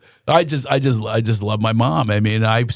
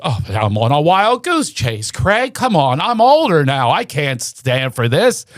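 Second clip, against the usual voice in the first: higher, weary mom voice; complaining mother; 4 semitones higher than usual. Retold or imitated. Son imitating tired mother following him. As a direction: protest the wild goose chase. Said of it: "And she goes".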